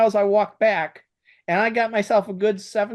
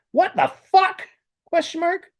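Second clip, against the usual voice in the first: shocked; 12 semitones higher than usual. Acted. Shocked character line while dictating.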